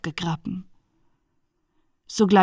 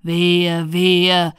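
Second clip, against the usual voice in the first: drawn-out, louder lament; raised voice, held on one note; appalled cry; 3 semitones lower, 4 dB louder than usual. Acted. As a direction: cry woe like an appalled judge. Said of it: "rief der Richter".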